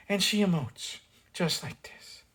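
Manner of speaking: a hint of a breathy emoting actress; breathy imitation. Reviewer mimicking the actress's breathy emoting, lightly. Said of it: "she's got that one breathy voice".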